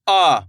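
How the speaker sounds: "आ" stretched as a long vowel; drawn-out vowel. Shown as a demonstration. Teacher showing beginners the long vowel, "आ" stretched. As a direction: draw out the "आ". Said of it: "इसको अपन खींच के पढ़ेंगे".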